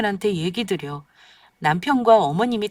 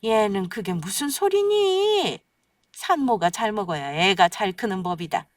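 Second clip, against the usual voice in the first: scolding mother-in-law. Acted.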